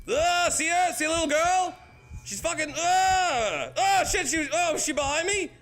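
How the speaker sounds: scared out of his wits; frightened shriek. Real, not acted. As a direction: shriek in real fright at the ghost. Ghost girl jumps out in game.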